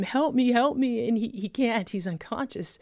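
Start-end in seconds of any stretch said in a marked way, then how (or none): 0.0-1.1 mock yell. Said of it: "I'm yelling at him".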